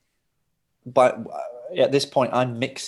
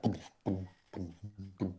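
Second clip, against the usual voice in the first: soft, low pumping booms; low pulsing sound effect; imitated speaker thump; 4 semitones lower, 14 dB quieter than usual. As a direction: puff out muffled speaker thuds. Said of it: "look at the speaker pumping".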